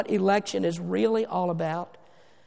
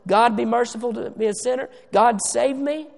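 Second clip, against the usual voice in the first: raised, louder plea to God; imitated crying out; 3 semitones higher, 3 dB louder than usual. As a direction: act out a sinner pleading for mercy. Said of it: "Anybody who cries out to God".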